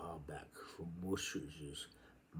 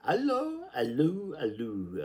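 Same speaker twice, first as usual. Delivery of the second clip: high loud call that fades down with each allo; 8 semitones higher, 9 dB louder than usual. Acted. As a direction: call out far, then let it drop. Calling out, each call fading.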